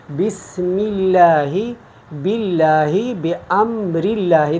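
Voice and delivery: slow بسم اللہ with a light, thin lam in اللہ; اللہ after the kasra said thin; thin tarqeeq. Shown as a demonstration. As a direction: recite بسم اللہ, باللہ and بامر اللہ with the lam kept light. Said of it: "باریک پڑھتے ہیں".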